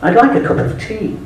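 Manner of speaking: put-on polite, proper English accent ordering. Ordering in a cafe in Phoenix, charming English accent. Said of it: "I said".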